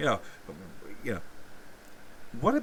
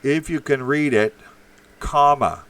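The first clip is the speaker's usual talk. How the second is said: loud, insistent read-out of "If you can read it, comma"; read aloud; 4 semitones higher, 9 dB louder than usual. Shown as a demonstration. Host reading a chat message aloud to Red Pill, loudly. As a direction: bark the line out, comma and all. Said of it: "Put a fucking comma in".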